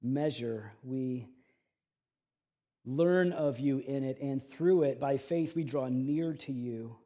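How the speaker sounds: slow, unhurried prayer to God; public prayer. Acted. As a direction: pray softly and reverently, with long pauses. Opens with a prayer.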